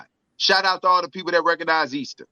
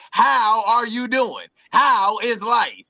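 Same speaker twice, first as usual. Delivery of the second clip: slow exaggerated politeness; 3 semitones higher, slower than usual. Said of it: "he meant to say".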